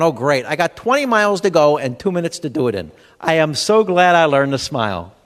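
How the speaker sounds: dry mock-cheerful sarcasm, slowing at the end; sarcastic. Late driver mocking stress-class advice, sarcastic. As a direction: fake a stress-course smile through panic.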